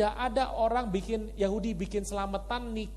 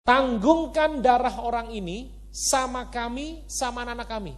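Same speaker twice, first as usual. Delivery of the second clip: crowd's defiant cry; 3 semitones higher, 5 dB louder than usual. Retold or imitated. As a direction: call it out like a defiant mob. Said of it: "Mereka bilang begini".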